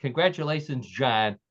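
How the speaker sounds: lightly put-on French accent. Host congratulates the winning co-host, light mock-French accent. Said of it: "do my best French accent".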